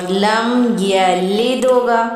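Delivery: slow, the د of یلد and یولد clearly stopped; slow recitation demo. Shown as a demonstration. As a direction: drag each syllable and land on the د. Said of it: "لد کی آواز نکلے گی".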